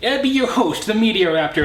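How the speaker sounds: badly faked Aussie greeting; bad Australian accent. Host greets Australian viewers in a fake Aussie accent. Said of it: "I can't do an Australian accent".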